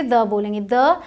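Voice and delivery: the as "thuh", short relaxed vowel; pronunciation before consonants. Shown as a demonstration. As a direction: keep the vowel of the at "uh". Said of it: "ये तो consonant है". (the को द बोलकर)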